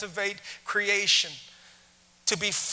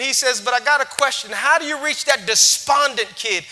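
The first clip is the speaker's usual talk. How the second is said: lightly voiced teacher; 4 semitones higher, 8 dB louder than usual. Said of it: "a man in the back corner popped up".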